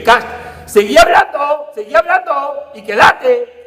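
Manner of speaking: high, loud, hammed-up ambiguous order; mock mixed message. Preacher mocking an ambiguous Jesus, high and loud. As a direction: overplay a confusing command. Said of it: "Yo cuando le dije".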